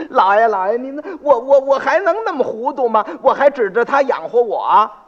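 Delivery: put-on flustered old man. Old father complains to the magistrate, indignant and stammering.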